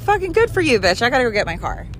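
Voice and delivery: high-pitched re-enacted snapback; dismissive retort. Retold brush-off to roommate threatening a call, dismissive. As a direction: throw back a scornful retort, starting high.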